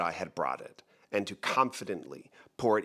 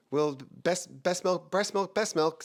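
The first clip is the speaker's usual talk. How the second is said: giggly slogan; 10 semitones higher than usual. Real, not acted. Giggly botched sign-off wordplay.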